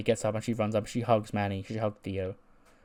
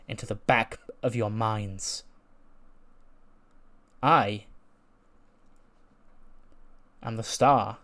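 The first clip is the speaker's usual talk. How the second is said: wrestling promo. Acted. To Bayley before SummerSlam, a cold, taunting promo. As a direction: threaten the champion like a cocky heel.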